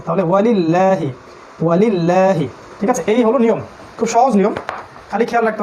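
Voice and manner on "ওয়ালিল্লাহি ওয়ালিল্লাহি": ওয়ালিল্লাহি with a light, thin ল. Shown as a demonstration. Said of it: "লামে জের আছে".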